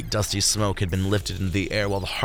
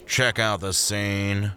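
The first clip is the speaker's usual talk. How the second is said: slow husky reptile drawl; suspicious slow lizard voice; husky hissing iguana; much slower than usual. Acted. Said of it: "The iguana's voice dripped with husk and slithers".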